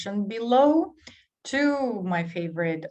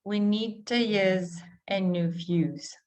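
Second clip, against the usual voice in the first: slow reading that runs the words together; slow and smooth, blend every word; slow blended demo. Shown as a demonstration. Teacher slowly repeating the sentence for learners. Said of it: "this is blended together".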